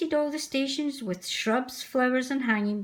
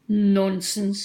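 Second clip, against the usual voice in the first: dismissive; 5 dB louder than usual. Acted. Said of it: "said the Fat Controller".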